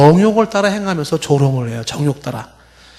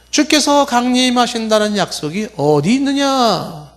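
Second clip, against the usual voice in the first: scoffer's higher-pitched challenge; mocking; 6 semitones higher than usual. Preacher voices scoffers doubting the Lord's return, mocking. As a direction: throw it out as a jeering question. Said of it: "이렇게 조롱을 하는 거예요".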